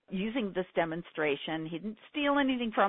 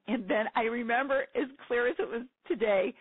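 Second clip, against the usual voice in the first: ordinary delivery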